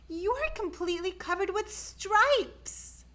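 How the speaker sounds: high, worried mother; mother's voice. A narrator's reading. Mother's voice in story.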